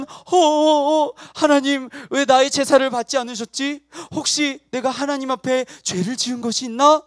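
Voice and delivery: acted anxious wondering; worried. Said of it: "하는 걱정스러운 모습이에요". (걱정스럽게 고민하는 연기)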